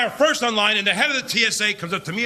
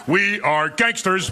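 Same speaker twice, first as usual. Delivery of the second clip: gangster voice; 2 semitones lower, much slower than usual. Retold or imitated. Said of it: "they went".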